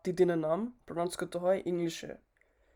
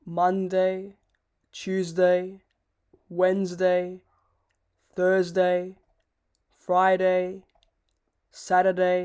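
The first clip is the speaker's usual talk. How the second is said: each day called out louder and clearly; recap list; 6 dB louder, slower than usual. Shown as a demonstration. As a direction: recite the days firmly, one by one. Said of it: "আমি সব অর্ডারে বলছি".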